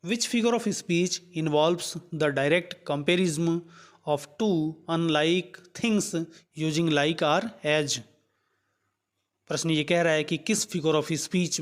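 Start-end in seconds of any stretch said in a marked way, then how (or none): 0.1-8.0 reads the English question out word by word, very slowly; slow question reading. Acted. Teacher reading the quiz question aloud to students, slow and deliberate. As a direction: dictate it slowly so students can follow.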